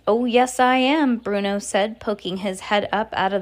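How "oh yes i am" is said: put-on squeaky boy voice. Boy mouse answers from bag.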